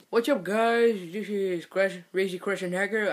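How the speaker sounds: attempted Russian accent; half-hearted imitation of a Russian-accented video host; Crazy Russian Hacker. Vlogger greeting guys as a hacker, shaky Russian accent. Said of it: "It's called a Russian accent".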